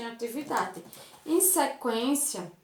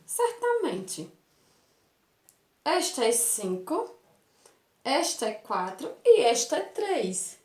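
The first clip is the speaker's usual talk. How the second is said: lightly exclaimed certainty. Acted. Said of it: "Ele fala naturalmente".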